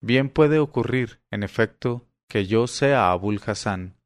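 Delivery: a calmer, slow "Bien puede ocurrir"; somewhat calmed. Acted. Abul Hasán calmed by his mother, slow and calm. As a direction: settle down after the water. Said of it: "dijo algo calmado".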